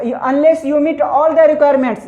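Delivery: slow, word by word, like dictating to a class; slow dictation. Shown as a demonstration. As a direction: spell it out slowly for students to write. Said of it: "यहाँ तक कर देना है". (धीरे-धीरे बोलकर लिखवाना)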